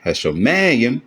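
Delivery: Hashomayim with the stress on ma; Hashomayim, leaning into its next-to-last syllable; marked word accent. Shown as a demonstration. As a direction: swell on the ma of Hashomayim.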